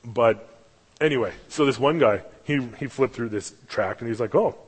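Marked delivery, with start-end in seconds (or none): 4.3-4.6 mock-intrigued, higher pitched; sarcastic show of interest. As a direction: imitate a skeptic feigning interest. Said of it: "like, all sarcastic".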